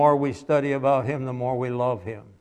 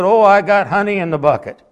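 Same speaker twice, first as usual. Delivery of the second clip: put-on higher, louder voice for the boy; little boy; 6 semitones higher, 8 dB louder than usual. Preacher voicing the boy answering the man.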